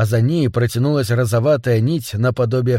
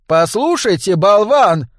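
higher, louder, affronted address; indignant rebuke; 6 semitones higher, 3 dB louder, slower than usual. A narrator's reading. Angry diner calls the maître d' an idiot, indignant. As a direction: put him in his place, angrily. Humboldt confronts the shrieking maître d'.

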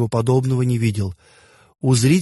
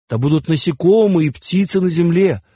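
higher-pitched divine order; commanding decree; 6 semitones higher, 3 dB louder than usual. A narrator's reading. Osiris ordering creatures into his new world, raised commanding decree. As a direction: order it as a lightly acted god. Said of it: "приказал Осирис".

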